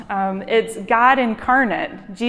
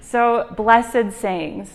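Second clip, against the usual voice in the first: slow explanation; much slower than usual. Shown as a demonstration. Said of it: "is an easy way for me to understand".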